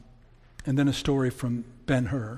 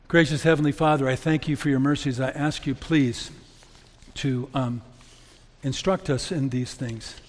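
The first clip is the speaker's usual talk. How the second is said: prayer. Acted. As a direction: pray humbly to God for the congregation. Closing prayer.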